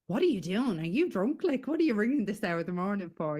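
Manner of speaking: a sleepy brother jolted awake, demanding answers; startled brother. Retold or imitated.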